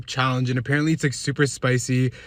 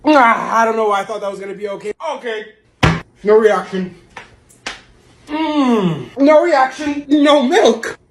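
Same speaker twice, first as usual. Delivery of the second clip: high, strained, burning mouth; after eating wasabi; 8 semitones higher, 4 dB louder than usual. Real, not acted. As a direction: gasp through the wasabi burn.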